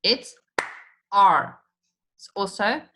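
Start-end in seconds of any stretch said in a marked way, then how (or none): 1.1-1.6 R clapped, much louder; clapped syllable. Shown as a demonstration. Teacher clapping R as one syllable. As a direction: punch R as one beat. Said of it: "And if I say R".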